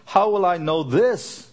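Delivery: this lifted at the end; How will I know "this" with a rising finish; stress on THIS. Shown as a demonstration. Pastor reading the verse aloud, rising on "this". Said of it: "So read this".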